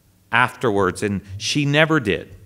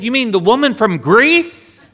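laughing; 11 semitones higher, 6 dB louder than usual. Retold or imitated. Amused realisation.

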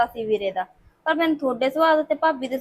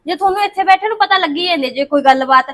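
upset protest; 3 semitones higher, 5 dB louder than usual. Acted. Daughter arguing with her mother.

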